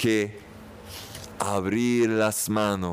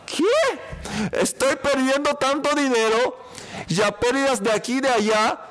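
shocked disbelief; 13 semitones higher than usual. Pretend. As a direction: play the man who can't believe it. Voicing a shocked, losing man.

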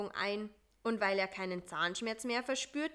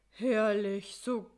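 relieved; 6 dB louder, slower than usual. Acted. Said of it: "sagte er erleichtert".

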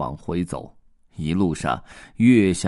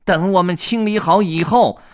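much higher, louder huffy cat; angry cat; 12 semitones higher, 9 dB louder than usual. Acted. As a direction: snap it out like an annoyed cat. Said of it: "猫生气地说道".

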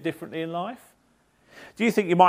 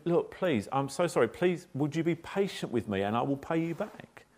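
pleading; 7 dB quieter than usual. Acted. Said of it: "this guy says to him".

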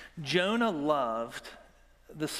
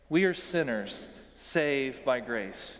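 slower, every word spelled out together; slow unison recitation; slower than usual. Shown as a demonstration. Pastor leads congregation in a shared creed, slow and measured. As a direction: lead the room through the line. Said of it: "Would you say that with me?".

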